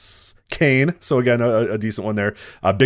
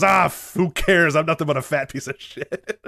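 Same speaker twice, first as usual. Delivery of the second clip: imitating Vader; 7 semitones higher than usual. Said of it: "He goes".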